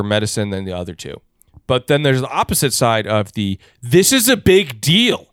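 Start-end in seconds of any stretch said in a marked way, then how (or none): 3.8-5.3 higher, slow alarmed emphasis; lightly hammed-up anxious patient; mock panicky patient. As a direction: overdramatize the worry.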